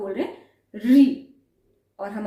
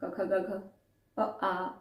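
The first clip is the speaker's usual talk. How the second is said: fast, light run of letters; quick-fire recitation of the letters; quick letter drill; 3 semitones lower, 7 dB quieter, much slower than usual. Shown as a demonstration. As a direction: rattle them off quickly. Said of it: "इसमें हम फटाफट बोलते हैं".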